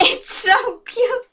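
high, slow, gushing squeal. Real, not acted. Fangirl showing her drawing, high slow gush. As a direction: stretch out the cute, squealing.

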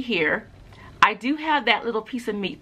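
speaking with lip held up; talking while showing gums; finger pulling lip up. Real, not acted. Seen 2: Fingertip lifts upper lip at 0-1.4 and again from 3.5s.

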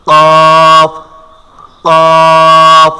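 qaf pushed out loud from the back of the tongue; letter demo. Shown as a demonstration. Teacher drills কফ for students, loud and forceful. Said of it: "কফ উচ্চারণ হবে".

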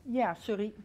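talking around a candy; mouth full. Real, not acted. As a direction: speak with a sweet in your mouth. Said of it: "I just got a candy in my mouth".

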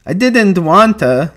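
slow, high, loud wail; distressed, drawn-out protest; crying out. A narrator's reading. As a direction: wail it miserably like a sorry child. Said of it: "Lenny cried".

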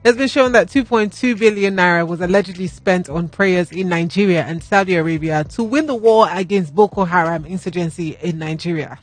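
composed, serious restart; pulling yourself together. Real, not acted. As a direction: straight news read, steadied. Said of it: "let me compose myself".

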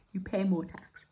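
talking through a yawn. Real, not acted. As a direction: speak mid-yawn. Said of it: "I'm yawning away here".

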